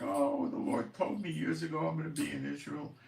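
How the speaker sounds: mock-gushing with excitement; excited wife. Husband imitates wife's excitement about Israel, high and eager. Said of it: "My wife was screaming".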